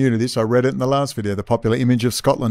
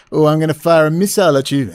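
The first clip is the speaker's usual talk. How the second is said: mock threatening brother; 3 semitones higher, 6 dB louder, faster than usual. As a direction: play a squabbling brother in a raised voice. Acting out two brothers fighting.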